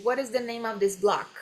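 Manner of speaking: "what is" run together, T tapped into the vowel; linked words. Shown as a demonstration. Teacher has students repeat, linked words. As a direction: join "name of this block" in one run. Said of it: "Olha como ele junta aqui".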